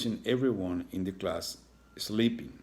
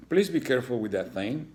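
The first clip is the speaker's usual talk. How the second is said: annoyed warning; 4 semitones higher, 4 dB louder than usual. Acted. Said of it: "while glaring at Iggy's tail".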